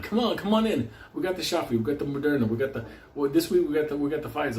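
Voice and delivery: car-dealer pitch. Retold or imitated. Imitating a vax worker pitching shots like a car salesman. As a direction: sell it like a used car guy. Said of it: "You sound like a car dealership guy".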